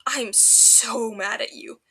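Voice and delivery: slow, breathy and half-laughing; breathed. A narrator's reading. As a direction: breathe it out, exhausted and hysterical. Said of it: "he breathes".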